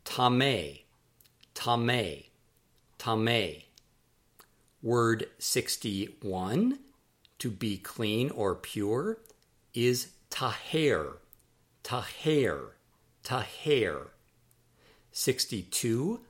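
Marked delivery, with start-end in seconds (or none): 0.0-3.6 "tameh" as tah-MAY, falling at the end; pronunciation demo. Shown as a demonstration. Teacher models the word for unclean, careful pronunciation of "tameh" as tah-MAY. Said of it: "that is pronounced tameh". 10.3-14.1 "taher" as tah-HAIR, falling at the end; pronunciation demo. Shown as a demonstration. Teacher models the verb to be clean, careful pronunciation of "taher" as tah-HAIR. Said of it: "that is pronounced".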